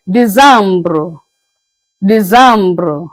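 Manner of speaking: "December" said "dee-zambruh", French style; "December" with a nasal middle and a rolled ending; French décembre. Shown as a demonstration. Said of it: "is being pronounced as".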